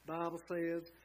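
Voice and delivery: a light Southern drawl on "Bible says"; quick nod to Billy Graham's Southern preaching accent. Retold or imitated. Preacher makes up for the missing accent, light Southern imitation. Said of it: "I'm sorry I didn't say in his accent".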